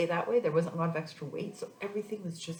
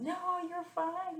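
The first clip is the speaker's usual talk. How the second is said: mocking dismissive doctor; 13 semitones higher, slower than usual. Mocking doctors dismissing her worry.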